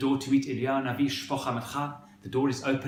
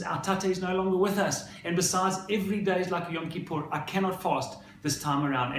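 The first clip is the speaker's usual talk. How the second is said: higher-pitched retold protest; upset, arguing son; 5 semitones higher than usual. Crying son answers his mother about fasting, retold upset protest. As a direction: imitate a distressed son answering back, without real tears. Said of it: "he's crying and she's crying".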